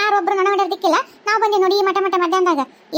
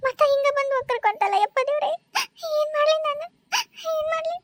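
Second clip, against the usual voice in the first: despairing lament; 6 semitones higher, 5 dB quieter than usual. Acted. Woman despairing alone, crying out.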